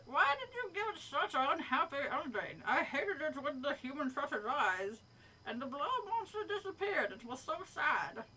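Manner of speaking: badly faked Jersey complaint, some laughter creeping in; hammed-up New Jersey monster griping; pretend New Jersey accent. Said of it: "pretend I'm doing a New Jersey accent".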